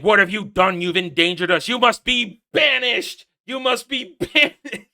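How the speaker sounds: mock sentence laughing at the end; mocking trial voice. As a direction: play the pompous elders.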